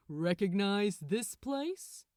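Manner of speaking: a smug little question; smirking. Acted. Gabriel smirking at Crowley in Eden. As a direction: tease him with a smirk. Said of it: "smirked Gabriel".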